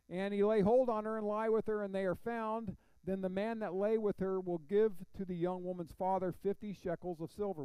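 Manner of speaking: projected verse reading, easing toward the end; scripture reading. Acted. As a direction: read the law out to the room. Reads scripture aloud to congregation.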